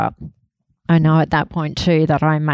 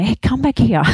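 higher mock call after a running kid; 7 semitones higher than usual. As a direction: imitate parents calling their child back. Parents calling after child.

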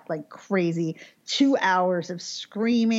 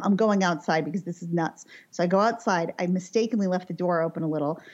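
normal talking voice

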